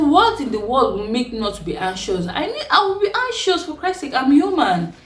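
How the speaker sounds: retold angry protest, pitch shooting up high; exasperated outburst. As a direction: throw it back at him, fed up and upset. Arguing back at her husband.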